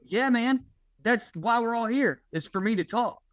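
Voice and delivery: retelling a heated comeback to a heckler; mock furious rant. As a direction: snap back, sarcastically worked up. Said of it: "I'm pissed".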